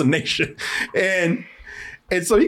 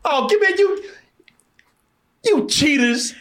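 real outrage; 9 semitones higher, slower than usual. Real, not acted. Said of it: "dream sequence".

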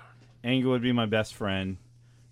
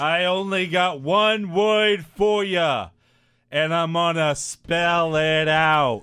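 slow, loud wrestling promo voice; wrestler promo voice; 5 semitones higher, 5 dB louder, much slower than usual. Retold or imitated. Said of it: "H A R D".

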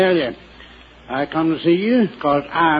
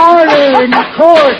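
loud, high judge's call; calling for order; 8 semitones higher, 7 dB louder than usual. Acted. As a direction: bellow for order over the room. Mock judge calls for order.

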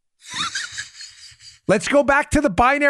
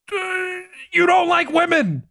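mock accuser; 6 semitones higher than usual. Mocking a liberal's retort.

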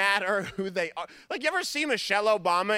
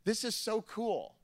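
put-on awed kid; 2 semitones higher, slower than usual. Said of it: "And I went".

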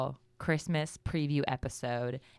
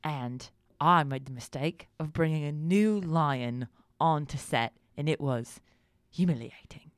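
Michael Caine impression. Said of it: "let's talk like Michael Caine".

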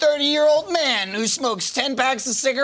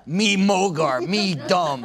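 caveman voice; 3 semitones lower, much slower than usual. Retold or imitated. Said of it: "He speaks like a caveman".

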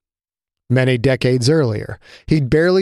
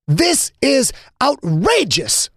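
outraged; 11 semitones higher, slower than usual. Acted. Manager objects to the council.

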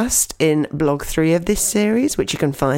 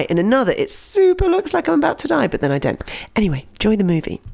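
hinted Will Smith voice. Retold or imitated.

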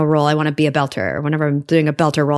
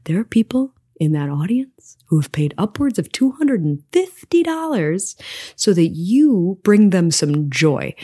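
hushed, urgent whisper to a fellow actor; backstage whisper; 3 semitones higher than usual. Retold or imitated. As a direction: keep it under your breath so the audience won't hear. Urging a colleague backstage quietly.

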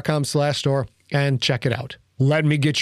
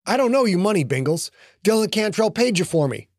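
lightly voiced man, a touch higher and defensive; Lincoln protesting; 5 semitones higher than usual. Lincoln arguing with Bingles about money, mildly raised protest. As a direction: push back at the gnome, a hint of indignation. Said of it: "Lincoln protests to Bingles".

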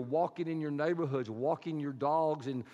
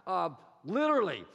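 frantic pig herder; 8 semitones higher, 4 dB louder than usual. Acted. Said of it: "I picture him saying something like this".

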